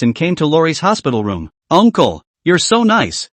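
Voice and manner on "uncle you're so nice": put-on sweet little girl. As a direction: chirp it like a happy little girl. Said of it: "smiled sweetly".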